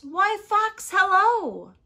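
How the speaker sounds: high, loud sing-out greeting; chirpy mouse. Acted. Mouse greets Fox on the path, high and chirpy. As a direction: pipe up a big friendly hello.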